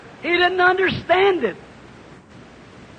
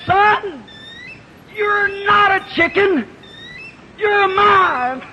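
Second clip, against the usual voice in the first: mother eagle's scream; 5 semitones higher, much slower than usual. Acted. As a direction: cry out to her lost son from the sky. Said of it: "she screamed back and she said".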